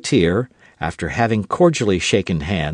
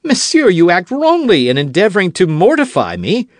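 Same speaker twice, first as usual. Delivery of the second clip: louder, higher offended retort; rising anger; 9 semitones higher, 5 dB louder than usual. Acted. D'Artagnan to Aramis, quarrelsome and loud. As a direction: let temper get the better. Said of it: "quarrelsome spirit began to speak more loudly".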